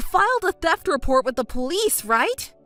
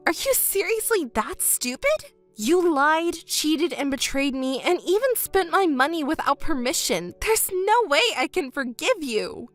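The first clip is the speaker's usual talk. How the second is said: higher, indignant tirade; angry scolding; 5 semitones higher than usual. Acted. Betrayed woman tearing into her lying ex, angry and high. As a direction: lay into him, pitched up with outrage.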